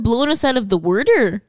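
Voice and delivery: mock Philly "worder" for water; Philadelphia accent. Gushing to co-host about HBO, mock Philadelphia accent. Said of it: "they say things like "wooder".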